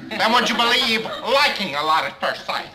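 lightly done deadpan spy voice; a hint of the clipped TV secret agent; Don Adams impression. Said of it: "Does he do a great Don Adams".

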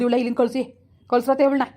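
angry demand. Acted. Angry brother refuses sister.

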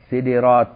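سدرات as "sidirāt", two short i vowels; i after d. Shown as a demonstration. Teacher lists valid plurals, سدرات said "sidirāt". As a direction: say سدرات with kasra on both s and d. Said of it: "وكسر الدال".

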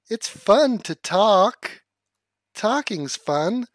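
slow, deadpan mock cheer; sarcastic. Mocking his own stumbling speech, slow sarcastic cheer. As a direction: drag it out with heavy irony.

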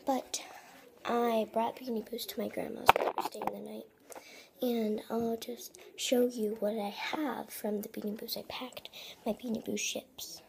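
hushed whisper so nobody wakes. Real, not acted. Whispering so grandma's house sleeps.

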